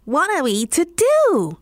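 cat panicking at the melting ice; cat's frightened cry. A narrator's reading. Cat crying to the dog at the river, frightened. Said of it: "cried the cat".

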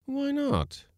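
high-pitched heated comeback; warm retort. A narrator's reading. Skipper defending his plan of a lady cook, warmly. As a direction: challenge him back, pitch up. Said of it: "inquired the skipper warmly".

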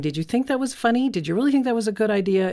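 mock the kid's choice with scorn; judgmental parent. Parent judging a child's prank, sarcastic. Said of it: "casting judgment".

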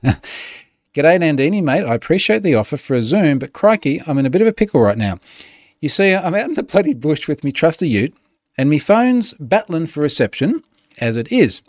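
a hint of an exaggerated Australian ocker read; lightly hammed-up outback bloke accent; Crocodile Dundee Aussie. Reading a spam reply as a lightly played Australian bushman. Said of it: "in the most Crocodile Dundee of tones".

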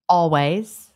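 always ending in a clear "ways"; long A in "always". Shown as a demonstration. Co-host answering how she says it, always as "all-ways". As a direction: give always its A. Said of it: "you say it more like my husband".

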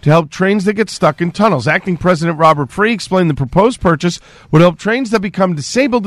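brisk radio newscaster delivery; news read. Acted. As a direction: read the headlines like a station newscaster.

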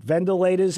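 "ventilators" said as "vendolators"; Andrew Cuomo's pronunciation. Retold or imitated. Host mocking how the governor said it, "ventilators" as "vendolators". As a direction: imitate a politician's "ventilators", the first t softened to d. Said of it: "as Andrew Cuomo would call them".

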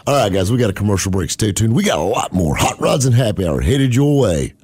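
upbeat radio host voice; radio announcer. Acted. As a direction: pitch the break like a DJ.

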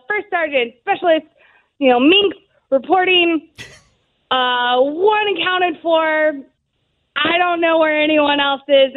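mock-official roll call; formal military report. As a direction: recite a report to your sergeant, lightly acted. Acting out report to first sergeant.

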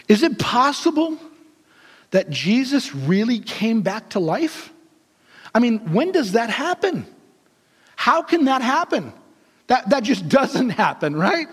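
acted-out disbelief, voice swinging in pitch; stunned and confused. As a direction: puzzle it out in halting, incredulous questions. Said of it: "so stunned and confused".

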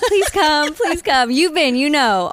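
high, eager begging to come along; excited plea. Real, not acted. Begging her friend to come along.

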